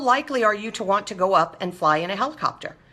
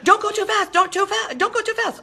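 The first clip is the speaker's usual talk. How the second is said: much higher, anxious mock panic; nervous pleading; 10 semitones higher than usual. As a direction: fret like a timid driver on the gas. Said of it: "And you're like".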